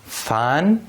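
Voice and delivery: "فن" with an airy, voiceless f at the start. Shown as a demonstration. Teacher has students feel the difference, voiceless f in "فن". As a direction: say "فن" with the first sound unvoiced, as f.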